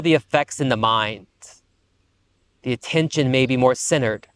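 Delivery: unhurried meditation guide, pausing between phrases; guided meditation. Acted. Teacher settling students after the breathwork, calm guided meditation. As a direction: ease them into stillness, phrase by phrase.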